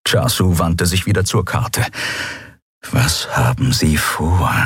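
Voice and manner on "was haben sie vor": growled question. Acted. Cat master puzzling over the pursuers, low and growling. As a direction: brood over the map aloud. Chasu turns back to map.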